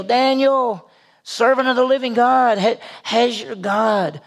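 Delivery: mildly anguished calling, drawn out at the end; troubled cry. Acted. The king calling to Daniel in the den, troubled cry. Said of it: "he cried out with a troubled voice".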